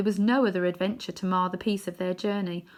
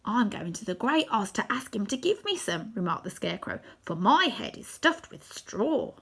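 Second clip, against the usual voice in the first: scarecrow voice; 3 semitones higher than usual. Acted. Scarecrow telling the lion a king shouldn't be coward, in scarecrow voice. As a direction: give it a strange straw-man tone.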